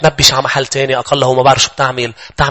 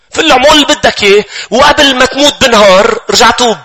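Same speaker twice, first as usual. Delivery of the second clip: higher and louder, a brazen devil egging him on; brash devil; 10 semitones higher, 4 dB louder than usual. Acted. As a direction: goad him boldly, slowing near the end. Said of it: "بصير يقول لك الشيطان".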